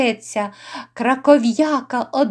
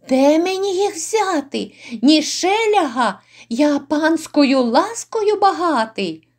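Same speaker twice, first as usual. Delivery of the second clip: high, imploring denial of money; pleading protest; 3 semitones higher than usual. Acted. Innkeeper pleading poverty to the lords, high pleading protest. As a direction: protest your poverty in a raised pitch.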